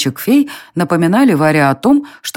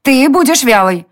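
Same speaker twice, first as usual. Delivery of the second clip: fairy voice; 8 semitones higher, 3 dB louder than usual. A narrator's reading. Fairy scolds Varya.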